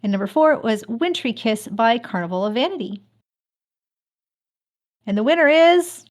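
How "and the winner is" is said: building suspense. Real, not acted. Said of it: "drum roll".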